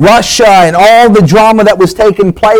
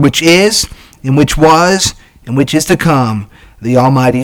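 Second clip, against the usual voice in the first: steady, measured King James reading; preacher reading Revelation aloud from the pulpit, measured; scripture reading; 2 semitones lower than usual. Acted. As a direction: read the verses to the congregation with weight.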